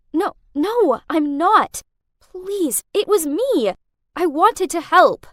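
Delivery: desperate, insistent plea; pleading. Acted. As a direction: plead with him to believe her. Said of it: "I pleaded".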